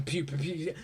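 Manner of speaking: quick soft pew-pew noises; imitated gunfire. Reviewer showing robots firing every direction, imitated gunfire. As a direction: toss off little laser shots under your breath.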